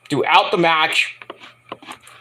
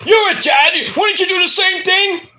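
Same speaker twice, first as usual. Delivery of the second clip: high-pitched mock argument shout; retold yelling; 12 semitones higher than usual. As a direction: yell an accusing question in imitation. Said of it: "like, yelling. He's like".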